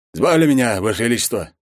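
lightly voiced nervous general; general's voice. General Konev voiced high.

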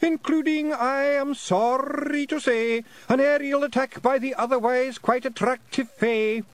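high, loud, slow, theatrical doleful declaiming; groaning lament recital. Acted. A pixie poet reciting awful verse at the fairies, high groaning declamation. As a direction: declaim terrible verse like a tragic bard.

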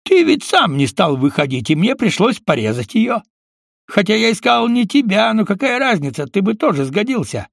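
Mosfet's offhand sneer; lightly voiced villain. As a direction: shrug off the murder lightly. Mosfet explaining the torture.

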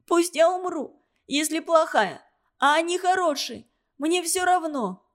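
put-on a girl in despair, near crying; tearful outburst. A narrator's reading. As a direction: voice pitched high with held-back tears.

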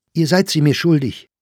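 loud, high, insistent demand; angry retort. Acted. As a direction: insist on what they owe you. (laute, zornige Erwiderung)

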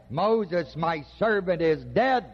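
measured phrases, "dead" struck crisply at the end; stress on dead. Shown as a demonstration. Preacher repeats God's words to show emphasis, stress on "dead". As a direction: build to a firm hit on "dead.". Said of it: "The emphasis is on dead".

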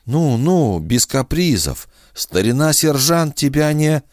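calm a frightened dog; soothing old sergeant. A narrator's reading. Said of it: "Сержант сказал".

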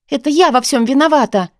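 blurting out guilt in despair; desperate. Acted. Heroine blames herself to Artyom, desperate. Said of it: "отчаянно произнесла я".

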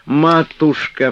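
высоко и протяжно, громче; выкрикнуть «матушка» с отчаянием; вскрикнув. Acted. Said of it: "вскрикнула Флёнушка". (протяжный вскрик «матушка»)

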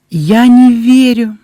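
high, loud, slow cries of disbelief; overjoyed exclaiming. A narrator's reading. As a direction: exclaim it over and over, overwhelmed. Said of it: "снова и снова восклицала Эбби".

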